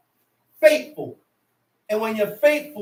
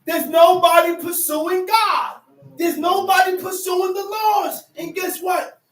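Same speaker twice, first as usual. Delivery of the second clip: raised, emphatic pulpit delivery; impassioned preaching; 5 semitones higher, 3 dB louder than usual. Real, not acted. Preacher lamenting that nobody pursues God, impassioned. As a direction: preach it out insistently.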